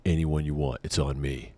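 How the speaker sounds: low, hushed mock generosity; confidential offer. Drunk buddy offering to pay, low soft acted offer. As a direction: drop it down like a private deal.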